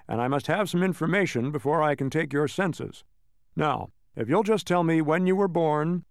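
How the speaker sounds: lightly voiced brisk official rattling on; fussy clerk reeling off a list. The census taker listing questions to the hurried travellers, officious. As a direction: tick through every item like a form.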